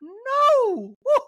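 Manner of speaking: very high, loud exclaim; a hammed-up gasped no; high shocked falsetto; Dorit impression. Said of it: "Dorit's like".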